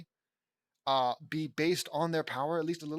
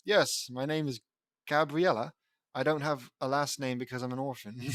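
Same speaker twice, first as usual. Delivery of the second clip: lightly attempted British accent; a hint of put-on British accent; 2 semitones lower than usual. Gabriella introducing herself to rescuers, light British accent. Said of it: "British accent, here we go".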